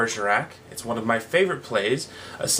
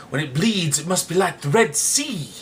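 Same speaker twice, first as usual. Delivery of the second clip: dramatic; 3 semitones higher than usual. Acted.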